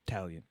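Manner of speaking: "Italian" started straight on the T; dropped first vowel. Shown as a demonstration. Echoing the other comic, "Italian" begun on the T. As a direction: say "Italian" as TAL-yun. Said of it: "You just say the T?".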